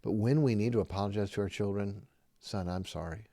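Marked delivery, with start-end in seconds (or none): 2.4-3.3 quiet, sincere "Son, I'm sorry."; sincere apology. Shown as a demonstration.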